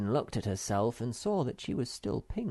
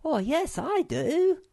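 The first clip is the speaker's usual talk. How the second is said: high, louder eager cry; eager shout; 5 dB louder, slower than usual. Acted. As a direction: call out quickly to get fed. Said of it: "shouted Sniff".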